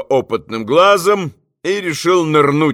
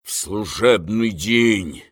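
spiteful; 4 semitones lower, 3 dB quieter, slower than usual. A narrator's reading. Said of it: "злобно заговорил Римский".

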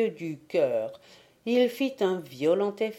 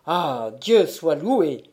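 slow, drawn-out cry of relief; relieved exclamation; 2 semitones lower, 4 dB louder, slower than usual. Acted. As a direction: let the relief burst out, slowly. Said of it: "s'écria le sacristain pour alléger son cœur".

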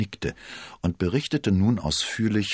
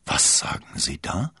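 understated shocked question, rising; taken aback, without raising the voice; dismayed. A narrator's reading. Cardinal hears the charges against his witness, dismayed. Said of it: "rief der Kardinal bestürzt".

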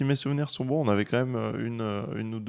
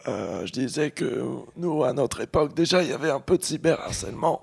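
put-on old person voice; 3 semitones higher than usual. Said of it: "Tu peux parler avec une voix de vieille personne?".

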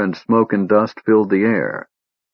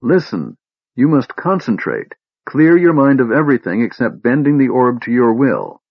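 shrill urging; 4 semitones higher than usual. Acted. Tass urging Laurana to master the orb, shrill. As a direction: push her on in a high voice. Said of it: "he cried in his shrill voice".

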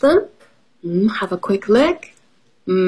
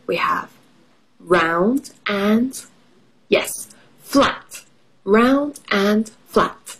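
kindergarten teacher voice; slower than usual. Shown as a demonstration.

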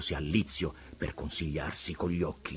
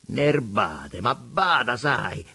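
gritted teeth; 5 semitones higher, 7 dB louder, much slower than usual. A narrator's reading. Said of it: "masticò tra i denti".

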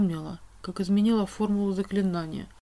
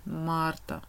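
softer tired drawn-out name; wearily drawn out; 3 semitones lower, 7 dB quieter than usual. A narrator's reading. King wearily drawing out Marta's name, softer. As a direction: sigh the name out in fatigue. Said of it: "устало протянула его величество".

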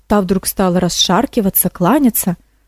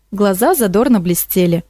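ordinary delivery

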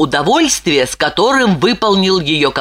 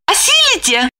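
much higher woman's voice, playfully doubtful; teasing question; 13 semitones higher than usual. A narrator's reading. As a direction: challenge him sweetly. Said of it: "Липочка спросила".

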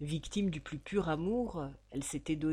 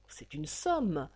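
slow weighty emphasis; 3 semitones lower, slower than usual. Acted.

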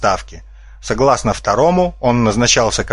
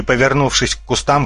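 ordinary delivery

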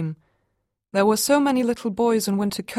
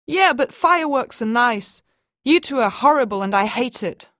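put-on upset child; 4 semitones higher, 4 dB louder than usual. Child complaining.

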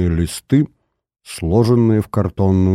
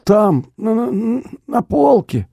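high, choking cry; stammering in agony; dying man begging for the pill; desperate dying plea; 13 semitones higher, slower than usual. Acted. Nosov dying of heart attack.

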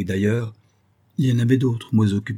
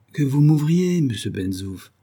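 sugary tone; 5 semitones higher than usual. Acted. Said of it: "d'un ton doucereux".

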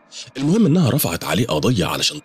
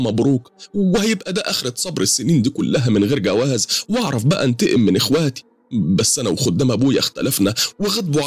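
higher, pleading woman's voice, close to tears; pitched-up, pleading storyteller's woman; tearful woman; 9 semitones higher than usual. Acted. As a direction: voice the frightened client as she pours out her troubles. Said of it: "بدأت عينها تدمع وقالت".

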